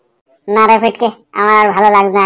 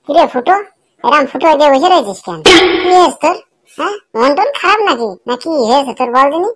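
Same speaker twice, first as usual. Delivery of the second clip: higher-pitched teasing friend voice; 6 semitones higher than usual. Acted. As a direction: poke at him like a nosy pal, pitched up. A friend teasingly questions Futo. (বন্ধুর চড়া গলায় খোঁচা মারা প্রশ্ন)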